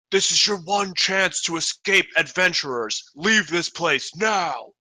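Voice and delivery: booming voice. Acted. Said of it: "a booming voice that echoes through the hall".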